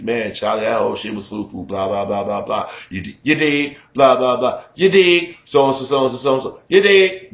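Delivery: easygoing Chicago patter; Chicago street talk. Retold or imitated. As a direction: rattle on like an old Chicago hustler. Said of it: "same energy".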